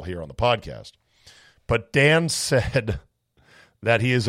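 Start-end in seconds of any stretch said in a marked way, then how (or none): 1.7-3.0 slow, laughing through the words. Real, not acted. Host laughing while reading the listener's email. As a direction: chuckle as you start the story.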